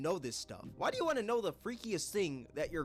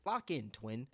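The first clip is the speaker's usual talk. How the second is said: put-on Atlanta accent; 5 semitones lower than usual. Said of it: "He said".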